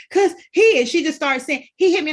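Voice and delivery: high, loud tearful pleading; imitating crying child. Mother imitates daughter sobbing that he hit her, high and loud. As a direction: blurt it out between sobs.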